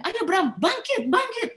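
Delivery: will him to rise up; urgent prayer. Retold or imitated. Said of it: "dia doain".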